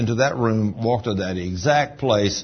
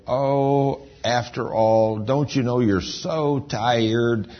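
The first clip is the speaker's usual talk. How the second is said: flesh tempting; 3 semitones higher than usual. Retold or imitated. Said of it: "your flesh will say".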